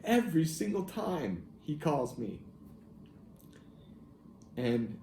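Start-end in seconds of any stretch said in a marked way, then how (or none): 0.0-2.4 higher, slow exasperated complaint; exasperated at his perfect timing; mock frustration. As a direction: replay the old annoyance, drawn out. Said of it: "sometimes I was frustrated with it".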